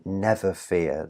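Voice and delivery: NEVer fear, slow, weight on "nev"; first-syllable stress. Shown as a demonstration. Teacher showing the stress, weight on nev. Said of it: "the stress is on the nev".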